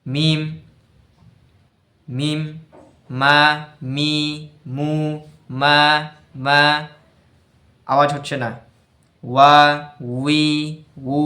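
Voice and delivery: মা মি মু said short and firm with no breath escaping; jahr letter drill. Shown as a demonstration. Teacher drilling মিম and ওয়াও syllables, firm voiced. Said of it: "তারপর হচ্ছে".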